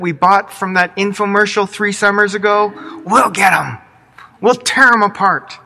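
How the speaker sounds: rally the troops to tear weeds out; eager servants. Pretend. Eager servants vow to weed.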